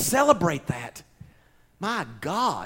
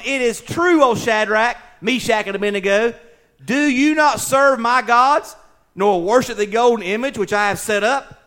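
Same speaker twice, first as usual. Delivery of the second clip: mildly raised, declaimed king's challenge; enraged king; 6 semitones higher, 7 dB louder than usual. Acted. King questioning three men who won't bow, stern declaiming. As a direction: proclaim it sternly as a royal demand. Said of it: "In his rage and fury".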